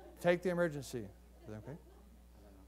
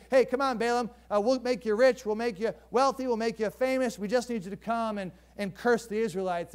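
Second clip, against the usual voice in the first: coaxing princes; 3 semitones higher than usual. Acted.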